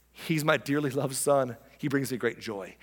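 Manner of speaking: proudly telling others about a son; God addressing the crowd. Acted. God to the crowd about his Son, measured and proud. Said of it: "he says to the crowd".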